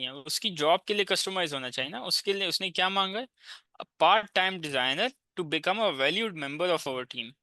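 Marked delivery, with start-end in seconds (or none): 3.8-7.3 slow reading aloud. Shown as a demonstration. Reads job post aloud.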